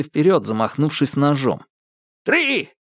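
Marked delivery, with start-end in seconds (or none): 2.2-2.7 high sharp shout. Acted. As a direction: shout the final count. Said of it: "крикнул Алби".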